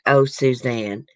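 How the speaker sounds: slow, lightly mimicked fake plea; Barry Morphew. Streamer mocking the B S in his voice, fake pleading. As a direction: draw it out as a second-rate, insincere plea. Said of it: "You could hear the second-rate B S in his voice".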